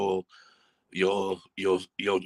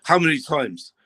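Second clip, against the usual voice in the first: higher, louder, fed-up demand; exasperated outburst; 6 semitones higher, 4 dB louder than usual. Real, not acted. Football pundit fuming about the referee, exasperated. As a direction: throw the question out in disbelief.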